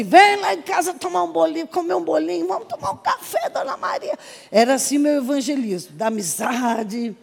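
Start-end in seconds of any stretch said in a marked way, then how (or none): 0.0-4.2 high, sing-song neighbourly invite; friendly invitation. Acted. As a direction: coax a neighbour over, pitched high. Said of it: "Eu sei assim". (convite animado em voz aguda)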